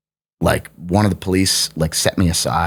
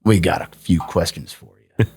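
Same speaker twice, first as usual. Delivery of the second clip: a hint of a Southern American police officer; Southern accent; 3 semitones lower than usual. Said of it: "they had a Southern accent".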